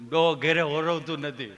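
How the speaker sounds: lightly voiced simple patient; Gabho. Patient answering the nurse, in a lightly put-on voice. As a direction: answer briefly in a dropped voice. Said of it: "અહીંયા ગભો બેઠો હતો".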